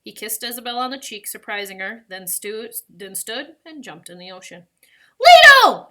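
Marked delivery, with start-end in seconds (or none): 5.2-5.9 high, full-voiced scream of a name; desperate piercing cry. A narrator's reading. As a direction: scream after someone in the water. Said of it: "Isabel cried".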